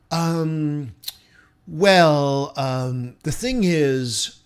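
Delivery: lightly voiced hesitant boss; a hint of an uneasy manager breaking bad news; awkward boss. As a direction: boss stalling before firing someone, mildly voiced. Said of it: "I'd be like the boss that says".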